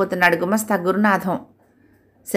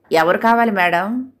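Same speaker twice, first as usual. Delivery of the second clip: slow, polite, humble asking; humble question. Acted. Watchman politely asking the visiting lady, humble and slow. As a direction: ask like a respectful watchman. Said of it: "వినయంగా అడిగాడు".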